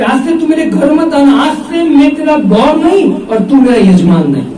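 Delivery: hammed-up angry priest cutting ties; angry outburst. The angry family priest shouting at Narsinh Mehta, a mock angry shout.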